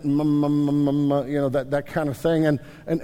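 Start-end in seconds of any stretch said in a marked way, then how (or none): 0.0-1.3 low, humming run of "m" syllables; imitating baby babble. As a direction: babble "mmm" like a baby, in a monotone. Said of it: "So, so they start".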